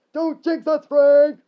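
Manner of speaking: high, very loud scolding shout; yell. Acted. Skeleton scolding Frank, yelling. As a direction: yell at him, hardest on the name. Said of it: "The second one yelled".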